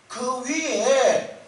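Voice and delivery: a man on a cliff asks if anyone else is up there; comic desperate shout. Retold or imitated. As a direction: stretch it out like a last hopeless call. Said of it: "이렇게 소리를 치는 거예요".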